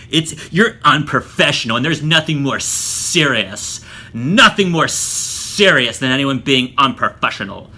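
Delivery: lightly imitated slow, emphatic scolding; mock self-righteous. Instructors scolding a student as unprofessional, lightly mocked self-righteousness. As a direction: draw it out like a mock lecture.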